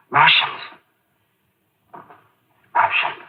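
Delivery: whispered, haunted by the voices; awed whisper. Acted. Colonel telling the aide what the voices said, hushed whisper. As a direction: breathe the word like a secret terror.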